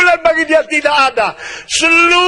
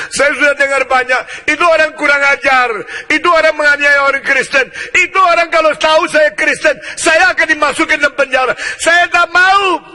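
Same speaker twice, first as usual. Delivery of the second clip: fearful Ananias protesting. Acted. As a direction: plead against the errand. Ananias explains fear.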